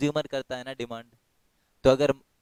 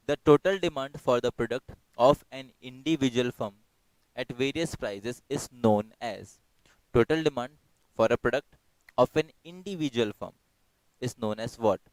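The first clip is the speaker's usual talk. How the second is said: slow, deliberate question reading; slow quiz reading; much slower than usual. Acted. Teacher reading question to online students, slow and deliberate. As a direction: draw the question out for the class.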